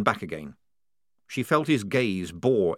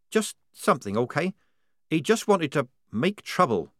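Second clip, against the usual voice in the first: higher, evasive; guarded young soldier girl; 7 semitones higher than usual. Acted. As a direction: keep the secret close. Polly evasive.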